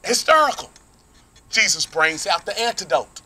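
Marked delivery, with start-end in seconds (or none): 0.0-0.7 mock hysterical. Real, not acted. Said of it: "I will be just".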